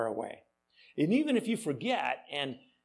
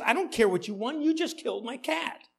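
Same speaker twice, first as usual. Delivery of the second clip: mock upset; 8 semitones higher than usual. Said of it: "Judy says".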